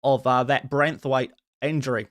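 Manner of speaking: put-on Australian accent; casual football talk with Australian vowels. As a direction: chat away in an Aussie accent. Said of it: "your Australian accent is actually decent".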